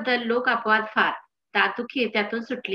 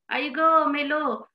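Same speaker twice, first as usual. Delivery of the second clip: slow, higher mock wail; acted pain; 5 semitones higher, much slower than usual. Husband with toothache to his wife, mock agonised wail. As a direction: draw it out as a hammed-up complaint of pain.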